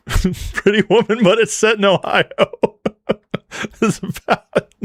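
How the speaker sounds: high-pitched, helpless real laughing; cracking up mid-sentence; crying with laughter. Real, not acted. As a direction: laugh through the words, barely getting them out. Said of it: "I'm crying as I'm laughing right now".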